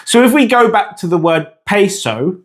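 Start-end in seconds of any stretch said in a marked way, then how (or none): 1.7-2.4 "peso" as PAY-soh, with English glides; English pronunciation. Shown as a demonstration. Teacher showing the English speaker's mistake, anglicised "peso". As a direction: say "peso" with AY and OH sounds. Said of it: "said with an English pronunciation".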